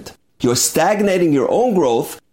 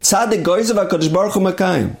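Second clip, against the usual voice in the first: retold desperate pleading; 5 semitones higher than usual. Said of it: "he breaks down".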